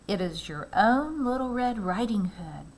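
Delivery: the wolf trying to pass as the girl, lightly voiced; a wolf's put-on girlish voice; wolf mimicking the girl. A narrator's reading. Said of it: "masking his voice sound as much like Little Red Riding Hood's".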